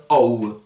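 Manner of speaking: "O" as "ó-oo", weight on the opening vowel; stressed first O. Shown as a demonstration. Teacher explains accent grave, "O" stressed at the start of the glide. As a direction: lean on the O, then glide to "oo". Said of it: "On insiste sur le premier O".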